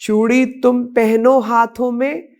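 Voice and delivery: measured, rhythmic patriotic verse recital; poem recitation. Acted. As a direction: recite each verse line in a stirring, declaimed cadence. (लयबद्ध देशभक्ति कविता पाठ)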